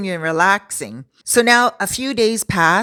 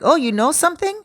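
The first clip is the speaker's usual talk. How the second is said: curious surprise; 8 semitones higher, faster than usual. Retold or imitated. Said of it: "And he's like".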